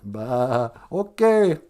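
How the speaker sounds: mock sheep bleating okay. Host mocking the obedient public as sheep, mock bleat. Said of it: "And all the sheep went".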